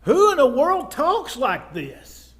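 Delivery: loud, slow, astonished onlooker; acted incredulity. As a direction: play a bystander who can't believe it. Acts out astonished onlookers of Jesus.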